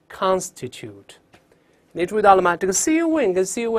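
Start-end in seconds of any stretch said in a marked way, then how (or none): 0.1-1.1 "constitute" read slowly, stress on "CON"; slow, careful "constitute" with a full first vowel; clear model reading. Shown as a demonstration. Teacher reading the last word aloud, clear model reading. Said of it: "再读最后一个".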